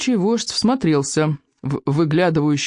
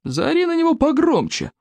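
raised voice; 12 semitones higher than usual. A narrator's reading. Chief calls out over commotion.

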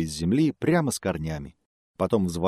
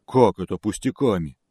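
offended bear; 4 dB louder than usual. Acted. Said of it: "обиделся медведь".

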